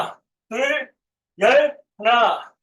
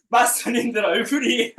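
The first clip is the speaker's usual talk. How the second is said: laughing; faster than usual. Real, not acted. Laughs at trainees' faces.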